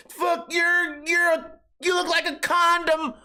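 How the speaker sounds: high mock shout; angry heckler. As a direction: yell at him like a worked-up fan. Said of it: "runs up to me and goes".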